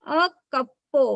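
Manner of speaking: normal talking voice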